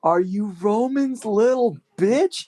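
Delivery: taunting wrestler. Retold or imitated. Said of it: "he says".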